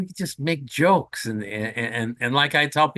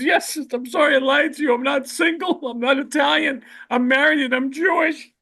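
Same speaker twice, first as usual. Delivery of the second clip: crying confession; 12 semitones higher than usual. Acted. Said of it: "He starts crying his eyes out".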